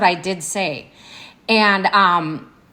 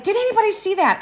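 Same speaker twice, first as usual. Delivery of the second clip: incredulous question, much higher in pitch; retold disbelief; 12 semitones higher, faster than usual. Retelling her question at the office doors, incredulous. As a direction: ask it as if you can't believe it. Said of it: "because I couldn't believe it".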